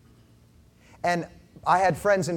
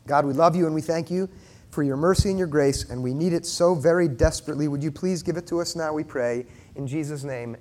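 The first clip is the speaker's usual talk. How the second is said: earnest prayer. Real, not acted. Leads closing prayer.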